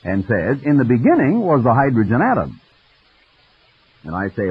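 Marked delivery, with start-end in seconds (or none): 0.6-2.6 smug. Retold or imitated. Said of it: "wipes its mouth smugly".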